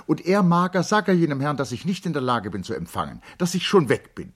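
high, loud, flustered protest; agitated. A narrator's reading. Charlotte protesting to the servant Mager, high and agitated.

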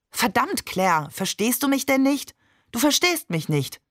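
höher, hitzig, frustriert; verzweifelt wütend. Acted. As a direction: bricht genervt aus ihm heraus. Vater platzt der Kragen. (Vater schimpft frustriert mit der Mutter, höher und hitzig)

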